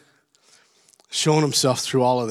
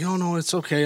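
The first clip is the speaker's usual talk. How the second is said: higher, gentle nurse's reassurance; reassuring; 4 semitones higher than usual. Retold or imitated. Nurse to patient who apologized for snapping, reassuring.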